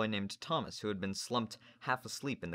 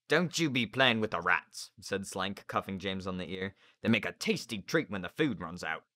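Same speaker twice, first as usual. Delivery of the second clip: gruff sailor; 3 dB louder than usual. Acted. Narrator voices Slank.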